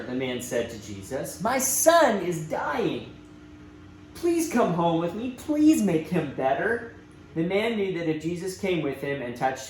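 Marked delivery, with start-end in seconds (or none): 1.4-6.9 slow, earnest begging; pleading father. Acted. Father begging Jesus to come heal his son, earnest plea. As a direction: ask as if your child's life depends on it.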